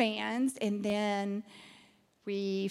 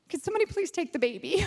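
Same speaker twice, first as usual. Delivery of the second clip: high, hurried comic plea; mock pleading; 6 semitones higher, faster than usual. Asking Katie to take the baby, mock pleading. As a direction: playfully beg someone to help. Acting out offering the ministry away.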